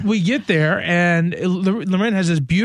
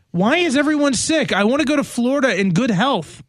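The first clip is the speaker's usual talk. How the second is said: high, exasperated complaint; why is this happening to me; exasperated whine; 4 semitones higher than usual. Real, not acted. Exasperated about sickness.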